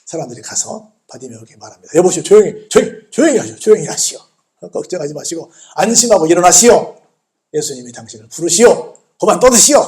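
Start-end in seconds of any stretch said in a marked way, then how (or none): 2.0-9.8 loud, repeated shushing orders; insistent, punchy crowd voice; urgent hushing. Retold or imitated. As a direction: imitate bystanders firmly quieting someone. Acts crowd hushing the blind man.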